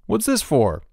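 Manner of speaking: high, startled question; gasped protest. A narrator's reading. Bruno being smeared with dirt, gasped protest. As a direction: demand a reason, taken aback. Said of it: "gasped Bruno".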